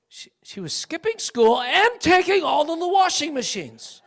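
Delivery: laughing. Real, not acted. Laughing at his own old outrage.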